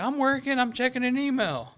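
imitating himself protesting to his yelling boss, high and loud; mock defensive protest. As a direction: squeal it out like you're caught slacking. Retold defence against yelling boss.

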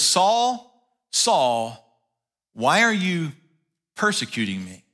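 second Saul dropped low and distant; a lightly voiced divine call, low and echoing; echoing heavenly voice. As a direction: call out, then sink into a low, far-off echo. Voice from heaven, repeated.

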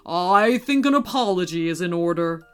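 lightly voiced stern Santa; grave, measured pronouncement; serious. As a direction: make clear an apology is due. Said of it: "said Santa seriously".

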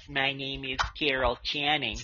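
lightly imitated wobbly old star voice; mumbly, wobbly old Hollywood voice; Carol Channing impression. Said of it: "She talks like this".

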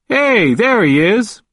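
high, drawn-out happy greeting; cheerful. A narrator's reading. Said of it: "He sounded cheerful".

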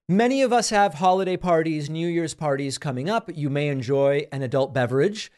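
smooth, even podcast ad read; sponsor ad read. Acted. Host pitching pre-drinking probiotic to listeners, ad read. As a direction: read the sponsor copy with measured emphasis.

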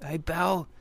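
put-on high, loud cranky old hermit; grumpy old codger, barking questions; old prospector.

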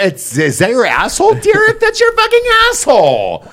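hammed-up husband yelling across the house; shocked husband. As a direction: squeal it out as the outraged husband. Voicing the husband finding out.

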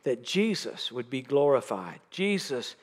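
slightly softened, earnest prayer voice. Real, not acted. Preacher asking the Lord to open the congregation's eyes, in prayer. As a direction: lead the room in heartfelt prayer.

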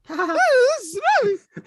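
put-on very high, loud, wailing child voice. Terrified girl wailing to grandpa on the phone, very high. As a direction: push it up into a squeaky kid wail. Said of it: "The voice is a bit higher too".

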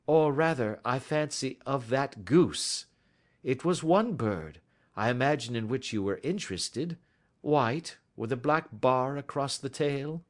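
Sherlock Holmes. Acted. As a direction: tease it out phrase by phrase. Voices Holmes probing.

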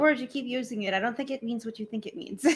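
Inigo impression. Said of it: "he was like".

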